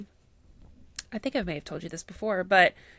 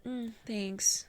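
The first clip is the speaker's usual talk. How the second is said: whispered cold thanks; dismissive thanks; 2 semitones higher, 6 dB quieter than usual. Retold or imitated. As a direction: mumble it off flatly. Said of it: "repeating the cold reaction".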